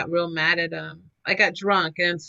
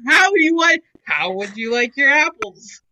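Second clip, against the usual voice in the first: laughing question; 4 semitones higher, 7 dB louder than usual. Pretend. Laughing joke.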